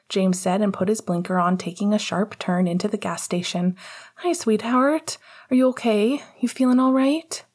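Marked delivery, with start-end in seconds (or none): 4.2-7.4 higher, gently anxious questions; tender concern. A narrator's reading. James checking on his wife in labour, tender concern. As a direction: check on a loved one, pitched up.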